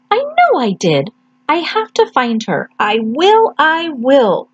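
lightly high, determined little chick; a small bird promising himself; baby bird voice. Acted.

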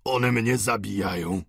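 put-on slow, wounded old man; understated dying groan in the words; mortally stricken. A narrator's reading. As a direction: lament as if struck down. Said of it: "jak gdyby postrzałem śmiertelnym ugodzony".

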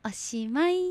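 put-on gentle storybook read for children; picture-book narration for listeners. Reads a picture book aloud on air.

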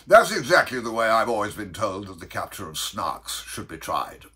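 loud, emphatic Bellman's aside; hasty cry. Acted. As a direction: break in with eager agreement. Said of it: "in a hasty parenthesis, cried".

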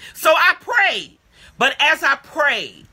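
so I prayed hit loud and drawn out; emphatic. Acted. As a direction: lean hard into the prayer, slowly. Climax of prayer story.

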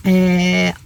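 talking while chewing gum. Real, not acted. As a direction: speak around a piece of gum. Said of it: "ağzımda sakız var".

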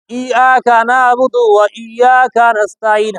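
slow, measured Quran recitation; recited example. Shown as a demonstration. Teacher shows class how people recite the verse, slow recitation. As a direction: recite slowly with stretched vowels. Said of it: "যেমন দেখেন আমরা বলি".

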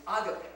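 agape as said in Greece today; agape in the secular Greek way; modern Greek pronunciation. Shown as a demonstration. Pastor showing how Greece says it, agape in modern Greek pronunciation. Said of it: "That's how they say it in".

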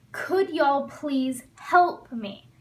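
each word slowly and clearly, for learners; slow model phrase. Shown as a demonstration. Teacher modeling a request for students, slow and clear. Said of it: "teacher modeling example command".

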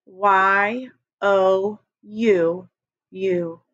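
Y O U spelled very slowly, letter by letter; slow spelling. Shown as a demonstration. Teacher leading the class in slowly spelling you. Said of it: "Say it with your eyes closed".

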